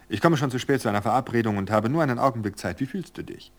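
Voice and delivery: a lady in a rush; lightly voiced busy wife; hurried Virgilia.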